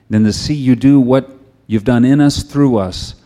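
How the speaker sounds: earnest pastor's prayer voice. Acted. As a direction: pray it over the congregation, steady. Pastor leads closing prayer.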